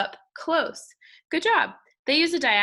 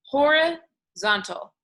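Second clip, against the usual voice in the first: "Horizontal" stretched slowly, higher and louder; slow drawn-out horizontal; 4 semitones higher, 5 dB louder, much slower than usual. Shown as a demonstration. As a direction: draw out "Horizontal" like a gesture. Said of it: "take your hands like this and do this with me".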